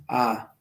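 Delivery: "A" held like a double A; long vowel. Shown as a demonstration. Teacher showing a long A in Latin, "A" held double. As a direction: draw out "A" as one long vowel. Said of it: "una A larga sería como una A doble".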